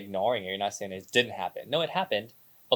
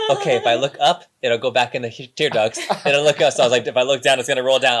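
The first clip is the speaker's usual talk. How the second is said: louder, tense self-instruction; retold holding back tears; 3 semitones higher, 11 dB louder than usual. Recalling holding back tears while looking at a baby photo, loud and tense. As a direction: talk yourself out of crying. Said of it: "I was literally looking away".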